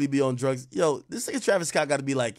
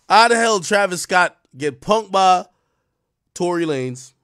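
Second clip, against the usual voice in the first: incredulous outburst; 4 semitones higher, 9 dB louder than usual. Real, not acted. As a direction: hit each word like you can't believe it. Incredulous rant about the fight.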